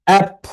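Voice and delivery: "অ্যাপ" said high, as one separate beat; stressed syllable. Shown as a demonstration. Teacher showing students when to clap, stressing "অ্যাপ". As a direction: hit "অ্যাপ" as the clapped syllable. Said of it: "the stressed syllables".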